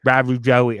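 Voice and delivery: Raru Joey, R in place of W; mispronounced channel name. Retold or imitated. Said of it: "or however they would say it".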